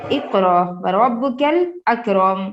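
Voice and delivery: slow, measured tilawat; Quran recitation. Acted. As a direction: recite each word slowly and evenly. Recites verse slowly. (آہستہ تلاوت)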